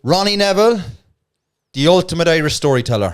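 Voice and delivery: loud, proud title announcement; showman announcement. Acted. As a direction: announce it like a poster. Announcing his show title.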